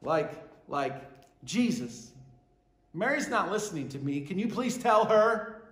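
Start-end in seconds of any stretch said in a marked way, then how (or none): 1.4-5.6 a whiny but polite request; polite complaint. Retold or imitated. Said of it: "without the word please".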